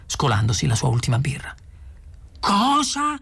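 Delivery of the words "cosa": high, incredulous cry; shocked yell. A narrator's reading. Arthur learns his house is being demolished, shocked yell. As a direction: yell it in disbelief, pitch leaping up. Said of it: "urlò Arthur".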